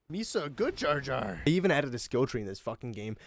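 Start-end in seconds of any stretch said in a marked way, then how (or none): 0.1-1.4 slow Gungan voice; Jar Jar voice. Retold or imitated. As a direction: do Jar Jar slowly. Jar Jar quote.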